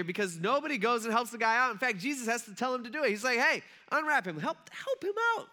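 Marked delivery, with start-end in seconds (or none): 3.4-5.5 urgent calling out. Acted. Jesus calling orders to bystanders.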